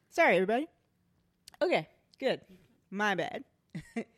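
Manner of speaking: loud, coughing, just after choking; clearing the throat after choking; coughing up water. Real, not acted. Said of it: "something went down the wrong way".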